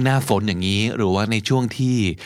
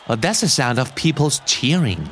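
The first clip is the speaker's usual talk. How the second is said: slow model; much slower than usual. Shown as a demonstration.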